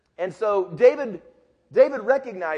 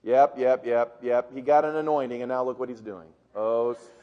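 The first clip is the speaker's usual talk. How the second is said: groaning brothers; 8 semitones lower than usual. Retold or imitated. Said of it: "all his brothers sitting there going".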